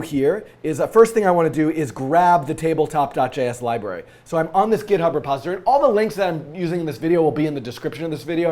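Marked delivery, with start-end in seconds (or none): 4.2-8.5 hoarse from a cold; scratchy voice, fast. Real, not acted. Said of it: "I apologize for my scratchy voice".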